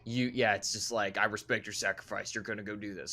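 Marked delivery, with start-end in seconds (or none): 1.2-3.1 a hint of Texan in the voice; Texan accent. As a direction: play a gruff Texan leader, low-key. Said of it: "Sorry, I put on a Texan accent".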